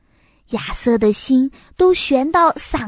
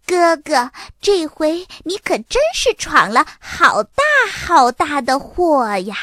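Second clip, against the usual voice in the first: worried; 6 semitones higher, 4 dB louder than usual. A narrator's reading. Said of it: "多拉在一旁担心地说".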